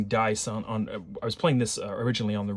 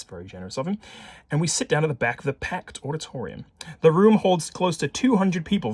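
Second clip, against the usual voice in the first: lively, emphatic storybook reading; story narration; 2 semitones higher, 4 dB louder than usual. A narrator's reading. Player reading the case aloud to viewers, lively narration. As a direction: read it out briskly with punched key words. Reads game text aloud.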